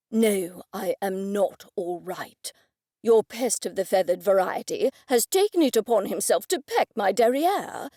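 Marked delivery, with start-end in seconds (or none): 0.1-4.9 whisper. Acted. Shocked after the peck.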